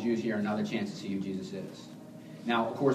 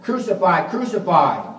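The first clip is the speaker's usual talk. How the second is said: louder, higher chant of crucify; shouting; 5 semitones higher, 6 dB louder than usual. Retold or imitated. Chief priests shouting at Pilate for death, loud. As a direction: call it out like an angry crowd. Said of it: "they shouted out".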